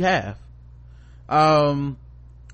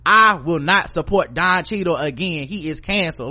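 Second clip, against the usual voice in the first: louder, mock-solemn pronouncement, word by word; mock outrage; 3 semitones higher, 4 dB louder than usual. Mocking fans who would cancel Don Cheadle, mock outrage.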